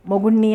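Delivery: మొగుణ్ణి pressed hard and playful; teasing stress on మొగుణ్ణి; stressed teasingly. A narrator's reading. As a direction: lean on మొగుణ్ణి with a teasing grin. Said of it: "పదం ఒత్తి పలుకుతూ కొంటెగా అన్నాడు".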